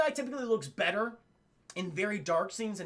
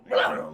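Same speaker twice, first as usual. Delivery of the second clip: short, rolled imitation growl; T-Rex growl; 5 dB louder than usual. Imitating the T-Rex reaction shot for chat, growling. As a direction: growl like a curious dinosaur. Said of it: "The T-Rex going".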